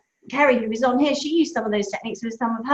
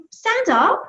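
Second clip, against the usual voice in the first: put-on higher, bright pep talk to a child; rally the little one, upbeat; cheery coaching; 9 semitones higher, 4 dB louder than usual. Mum cheering up a sad boy, upbeat and encouraging. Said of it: "so I said to Charlie".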